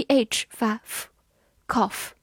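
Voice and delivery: slowly sounding out cough with a short o; very slow phonics breakdown of cough. Shown as a demonstration. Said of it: "C发k，O U字母组合发短音o".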